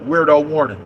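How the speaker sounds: mock alarm call. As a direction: announce it like an alarm. Mock alert about weirdos.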